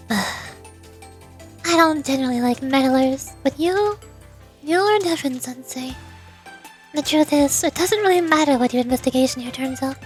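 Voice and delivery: softly measured, lightly voiced leader; understated reserve with small hesitations; composed, guarded president. President discussing Rumi with Sensei, guarded composure.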